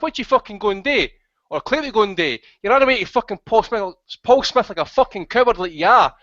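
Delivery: heated, pushy telling-off that speeds up then slows to spit the insults; angry rant. Real, not acted. Host laying into caller Dab Dab on air, angry rant. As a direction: tear into him for being a snitch. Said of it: "I'm quite shaken after the host's rant".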